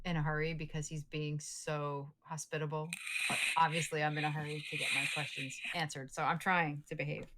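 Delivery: talking through a mouthful; mouth full. Real, not acted. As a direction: speak around a bite of stew. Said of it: "you're talking with your mouth full".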